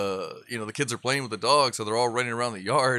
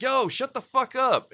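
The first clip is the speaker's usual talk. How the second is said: yelling at dog; 13 semitones higher than usual. Retold or imitated. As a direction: snap at the barking dog. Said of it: "I'm like".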